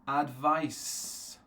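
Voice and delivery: advice, final S sound. Shown as a demonstration. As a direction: end advice on a hissed S. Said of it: "So for example".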